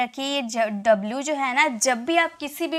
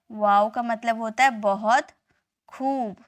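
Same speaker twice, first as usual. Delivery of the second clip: a hushed, breathy teaching whisper; whispered repeat; 3 semitones lower than usual. Shown as a demonstration. Teacher repeating wow's meaning to students, whispered.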